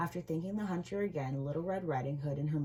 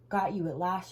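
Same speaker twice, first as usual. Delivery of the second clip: louder triumphant call; hunter's shout; 3 semitones higher, 6 dB louder than usual. Acted. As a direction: shout it as the trap springs. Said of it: "shouted the hunter".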